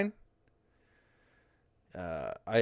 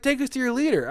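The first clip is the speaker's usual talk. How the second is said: high, loud alien demand; lightly voiced alien visitor; mock alien; 4 dB louder than usual. Aliens landing in India, high mock alien. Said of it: "they're gonna be like".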